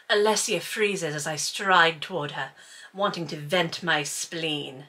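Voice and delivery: reading a romance novel aloud to listeners; story reading. Acted. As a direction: read the novel passage aloud, a little darker.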